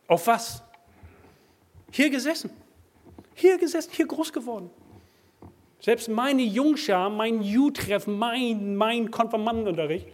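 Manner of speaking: high, loud preaching cry; fired-up preacher shouting at the congregation; impassioned shout. Acted. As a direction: build from a sharp question to a ringing shout.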